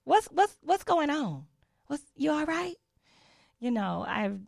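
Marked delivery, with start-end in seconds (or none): 0.0-2.8 higher, puzzled, faux-worried; incredulous teasing check-in; mock concern. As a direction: ask like they've lost it. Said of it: "you just wanna say to".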